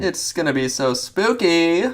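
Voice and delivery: high, slow ghostly spooky voice. Acted. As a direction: drag it out like a ghost. Hammed spooky voice.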